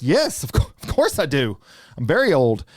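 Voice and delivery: loud, hammed-up agreement; over-keen phone victim; eager playing along. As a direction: humor the caller with mock eagerness. Hamming it up for the robocaller.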